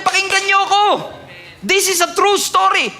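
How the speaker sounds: proclaiming. Retold or imitated. Sarah calling everyone to listen.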